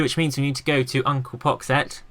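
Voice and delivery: usual speaking voice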